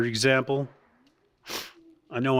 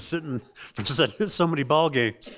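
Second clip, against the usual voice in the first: laughing; 2 semitones higher than usual. Real, not acted. Laughing at the joke.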